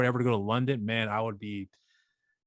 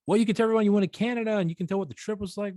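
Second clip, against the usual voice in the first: mock dad voice; 10 semitones higher, faster than usual. Dad's quote retold.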